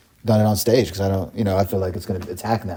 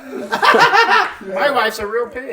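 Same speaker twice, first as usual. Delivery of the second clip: pitched-up frog delivering bad news; Kermit the Frog; 6 semitones higher, much slower than usual. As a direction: draw it out as a cartoon frog. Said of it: "using the Kermit voice".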